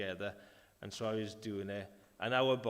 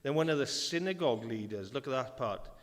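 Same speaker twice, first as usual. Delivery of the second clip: lightly raised scripture reading. Acted. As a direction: read the passage to the church. Reads scripture aloud.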